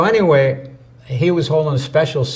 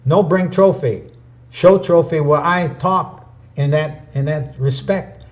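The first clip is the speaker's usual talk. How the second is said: put-on Korean accent; 3 semitones higher than usual. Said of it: "He says".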